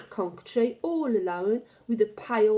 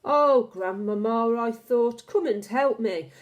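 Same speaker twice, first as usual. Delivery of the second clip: frightened plea; 4 dB louder than usual. Acted. Boy panicking in the tree.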